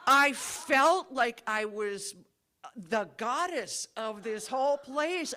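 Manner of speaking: swelling with real excitement, drawn out; excited recollection. Real, not acted. Woman recalling her karaoke triumph in Mexico, thrilled. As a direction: relive the moment the whole bar stood up. Recalling the bar singing along.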